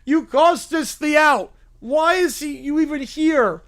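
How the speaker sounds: high, loud, slow heckling; angry heckling. Acted. Crowd heckling the fan who cost them the out.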